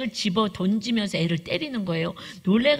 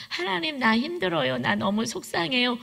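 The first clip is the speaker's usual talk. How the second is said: 1 demo prayer; 4 semitones higher than usual. Shown as a demonstration. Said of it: "소리 질러서 한번 기도해보자".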